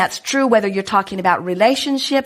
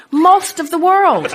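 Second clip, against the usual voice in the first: slow, higher, laughing as she says it; amused; 8 semitones higher, 3 dB louder, slower than usual. Real, not acted. Speaker teasing about Trump, slow amused laugh. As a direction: savour the joke, slowly.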